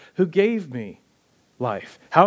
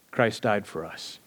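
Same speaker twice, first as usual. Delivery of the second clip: hushed; 7 semitones lower, 7 dB quieter, slower than usual. Real, not acted. Climax of the key verse.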